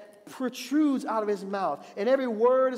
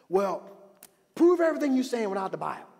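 mock challenge; 5 dB louder than usual. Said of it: "they instantly want to say something like this".

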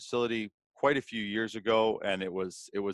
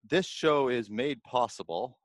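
put-on old radio announcer; slower than usual. Shown as a demonstration. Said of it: "I sound like one of those old, uh, radio announcers".

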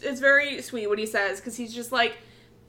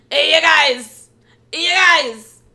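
higher, louder you guys; louder emphatic call; 4 semitones higher, 9 dB louder, much slower than usual. Real, not acted. Hosts calling to the listeners near the end, louder. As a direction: call out to get attention. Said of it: "calling listeners repeatedly".

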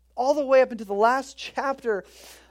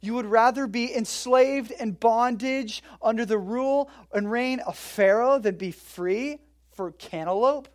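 mock incredulous God; 3 semitones higher than usual. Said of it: "It's like".

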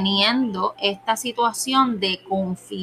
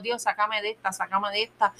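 soft, hushed plea to God; hushed, half-whispered prayer; quiet plea; 6 dB quieter than usual. Retold or imitated. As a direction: murmur the plea like a tired prayer. Quiet pleading prayer quoted.

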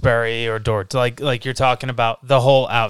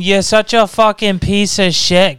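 loud, higher Boston-accented insult, hammed up; Boston movie quote; 6 semitones higher, 5 dB louder than usual. Quoting a Ted line to a friend in a hammed-up Boston accent. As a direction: bark it like a rowdy Boston guy from Ted. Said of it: "That's from Ted".

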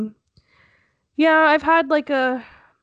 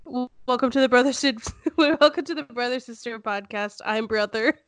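mock intro voice. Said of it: "I, like, pictured you saying".

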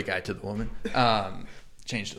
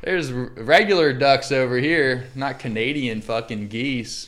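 higher, worked-up inner rant; mock outraged rant; 3 semitones higher than usual. Retelling his own thoughts, he rants in mock outrage. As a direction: scoff at the host's bird ignorance. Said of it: "I was like".

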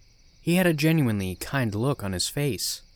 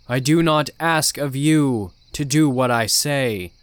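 cult leader preaching; 4 semitones higher, 6 dB louder than usual. Acted. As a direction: preach with grand calm authority.

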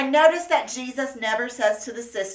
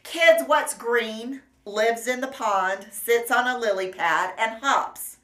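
put-on preacher to children; 2 semitones higher than usual. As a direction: lean in and coax the kids along. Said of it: "he said to the children".

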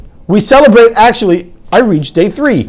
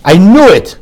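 gloating "I knew it!", pitch jumping much higher; snarky triumph; 3 semitones higher than usual. Retold or imitated. Cynical classmate gloating at the crowd, mock triumphant. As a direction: crow it like a cynic proved right. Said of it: "he looks and he goes".

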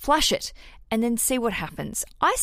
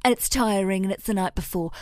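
put-on old English accent; faster than usual. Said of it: "What's this accent? It's some sort of old English".

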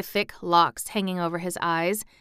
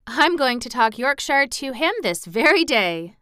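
chuckling; 5 semitones higher, 5 dB louder than usual. A narrator's reading. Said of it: "chuckling herself".

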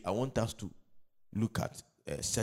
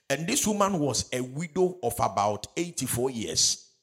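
raised, louder preacher's reading; emphatic scripture reading; 5 semitones higher, 7 dB louder than usual. Real, not acted. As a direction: proclaim the verse to the congregation. Proclaims the verse to congregation.

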